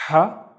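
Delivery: "ha" pushed out like running out of breath; breathy Arabic ha. Shown as a demonstration. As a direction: say "ha" as if winded, with a strong rasp of air. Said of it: "running out of breath".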